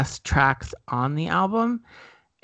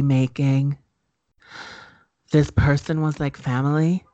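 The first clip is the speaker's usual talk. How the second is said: YouTuber apology video. Retold or imitated. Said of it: "quick homage to a YouTuber's".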